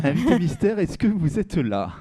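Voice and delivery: high, loud, drawn-out summons; playful stretched-out call. Acted. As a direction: call into the void for a hidden guest. Host summons the mystery guest.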